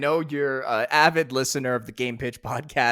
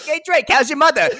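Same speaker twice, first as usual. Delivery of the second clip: higher, louder goofy Sully voice; playful imitation of Sully; mock Sully line; 14 semitones higher, 9 dB louder, faster than usual. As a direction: toss it off like a dopey buddy. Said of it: "he's like".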